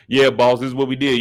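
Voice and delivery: loud, loose slang to the boss; unprofessional casual talk. Pretend. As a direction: act too casual with the boss. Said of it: "You can't do none of that in there".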